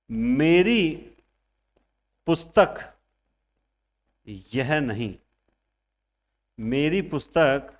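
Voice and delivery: मेरी पुस्तक, यह नहीं, वह है spaced out with long pauses; slow, pointed stress on यह and वह; emphatic demo. Shown as a demonstration. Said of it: "निश्चय का मतलब ही होता है जोर देकर कहना।". (यह नहीं, वह है — ज़ोर देकर, रुक-रुक कर)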